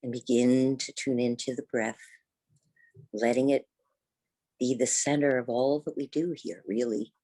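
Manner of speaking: unhurried yoga teacher's guidance, long pauses between thoughts; guided meditation. Real, not acted. Teacher guides seated students into the breath, guided meditation. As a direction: guide them gently inward, leaving space after each phrase.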